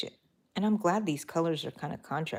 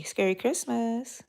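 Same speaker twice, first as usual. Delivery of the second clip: spooky greeting; 5 semitones higher than usual. Retold or imitated. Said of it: "I would tell everybody".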